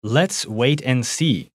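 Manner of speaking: Let's wait and see said slowly and clearly; slow clear model sentence. Shown as a demonstration. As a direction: read it out slowly for learners.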